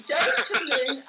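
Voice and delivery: a light British lilt on "Doge to the moon"; playful British. Real, not acted. Cheering Dogecoin for viewers in a light British lilt. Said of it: "I'm sounding more British than Australian".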